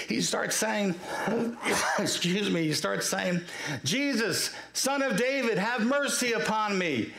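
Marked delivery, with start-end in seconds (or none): 3.8-7.1 higher-pitched imitation of yelling out; mock yell. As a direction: cry out to be heard over a crowd, without full volume. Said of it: "starts yelling out as loudly as he can".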